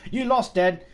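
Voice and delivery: hammed-up bragging child; gloating kid. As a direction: crow about winning like a smug kid. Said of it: "and then they go".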